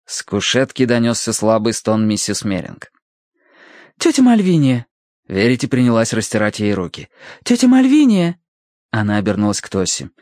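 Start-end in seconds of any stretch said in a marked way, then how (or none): 4.0-4.9 high worried call. A narrator's reading. Verity calls to fainted aunt. 7.4-8.4 high, loud urgent call. A narrator's reading. Verity calls again, louder.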